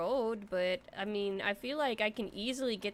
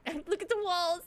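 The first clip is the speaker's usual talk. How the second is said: laughing through look at the walls; 8 semitones higher than usual. Real, not acted. Laughing at herself for missing the walls, giggling. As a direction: giggle the words out.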